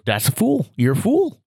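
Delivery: lightly voiced scornful old-timer; a hint of a blustery old man; Gramps' voice. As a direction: scold like a disbelieving grandpa. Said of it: "Gramps Grant's talking like this".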